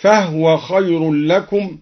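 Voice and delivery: slow recitation with a still h in فهو; silent-vowel ha in فهو. Shown as a demonstration. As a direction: say فهو as fahwa, no vowel after the h. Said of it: "وسكن الهاء من".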